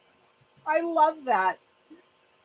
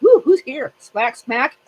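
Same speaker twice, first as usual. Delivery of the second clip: high, loud cocky tomcat strutting in; a brash little tomcat announcing himself; male cat voice; 5 semitones higher, 9 dB louder, slower than usual. Retold or imitated. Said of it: "He's like".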